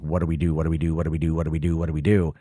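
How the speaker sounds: low, monotone panicky loop; frozen indecision. Retold or imitated. Two lovers frozen on meeting again, stuck and dithering. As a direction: repeat it on one low note, stuck. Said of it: "like, frozen".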